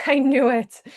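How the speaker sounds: tearful little laugh, caught off guard; emotional laugh. Real, not acted. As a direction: laugh it off while welling up. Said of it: "I'm getting emotional".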